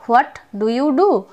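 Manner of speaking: What do you do said very slowly, word by word; slow teaching demo; slow, spelled-out model phrase. Shown as a demonstration. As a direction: drag each word out for learners to copy.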